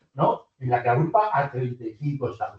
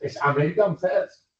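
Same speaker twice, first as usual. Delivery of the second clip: American First said slowly and leaned on; stress on American First; slower than usual. Shown as a demonstration. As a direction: lean on American First to set it against United States First. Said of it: "no es United States First".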